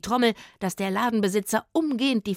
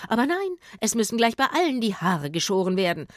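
indignant complaint; 3 semitones higher, 4 dB louder than usual. Acted. Hairdresser complaining.

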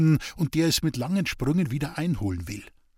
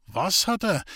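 higher-pitched baffled question; 6 semitones higher than usual. A narrator's reading. Waldhofer baffled by the sick man's answer, taken aback. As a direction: ask it in sudden bewilderment, pitch jumping up. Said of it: "fragte der Waldhofer verblüfft".

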